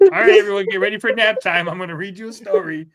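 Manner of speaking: a cheery teacher starts bedtime; bedtime story voice. Pretend. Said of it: "you're tucking everyone in".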